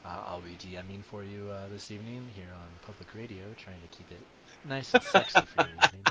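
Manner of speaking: smooth public radio announcer; radio host voice. Shown as a demonstration. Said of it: "This is the recap voice I should use".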